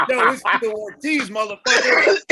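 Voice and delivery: Tito Ortiz. Retold or imitated. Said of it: "in pure Tito Ortiz fashion".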